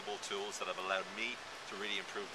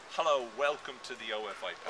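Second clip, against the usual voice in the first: rushed hello; 3 dB louder than usual. Shown as a demonstration. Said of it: "hello" is quite fast".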